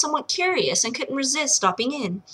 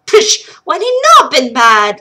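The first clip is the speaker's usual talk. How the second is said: loud scoffing brogue; amused old wife; 4 semitones higher, 10 dB louder than usual. Acted. Wife scoffing at the warning, loud amused. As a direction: scoff fondly. Liv laughing.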